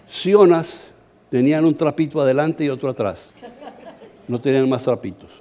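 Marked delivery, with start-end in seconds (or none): 4.3-5.3 laughing while telling. Real, not acted. Preacher jokes about the undressed tribe.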